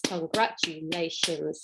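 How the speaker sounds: a hushed, slow con-gra-tu-la-tions; slow and soft. Shown as a demonstration. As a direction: ease congratulations out quietly. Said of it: "a word with five syllables".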